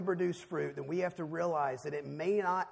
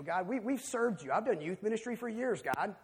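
raised, higher, louder complaint to God, building in heat; frustrated prayer; 7 semitones higher, 6 dB louder than usual. Retold or imitated. Tired parent in a hospital complaining to God, loud and angry. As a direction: pour out the grievance like a father at the end of his rope. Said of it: "I, I'm frustrated".

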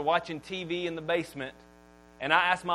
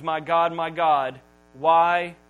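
mildly louder, pleading call; loud cry; 2 semitones lower, 5 dB louder, much slower than usual. Acted. Preacher reading Jesus's cry to God, mildly raised. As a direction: lift each word as a mild cry. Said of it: "he cries out in a loud voice".

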